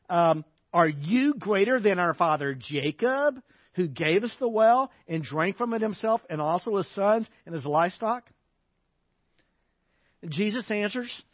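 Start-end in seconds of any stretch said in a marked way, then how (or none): 0.7-8.3 rhetorical question with a sarcastic edge. Acted. Woman comparing Jesus with Jacob, sarcastic. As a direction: ask it as a mocking challenge. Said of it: "Sarcastically, she asked".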